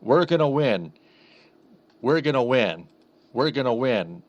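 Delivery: flat, robotic repeated chant. Retold or imitated. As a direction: say it like a robot on loop. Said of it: "kinda sounding more robotic".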